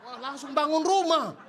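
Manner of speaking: slow, loud laughing exclamation. Real, not acted. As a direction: laugh out the punchline. Joke about building a house.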